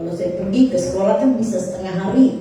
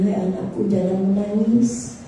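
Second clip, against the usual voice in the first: slow, drawn-out consoling words from God. Retold or imitated. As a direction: slowly imitate God comforting his child. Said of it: "dia dengar suara bilang begini".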